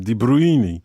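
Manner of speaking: De Bruyne said boldly, stretched "bruini"; De Bruyne, pleased with himself; proud De Bruyne. Shown as a demonstration. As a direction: show off the new De Bruyne. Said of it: "How about that?".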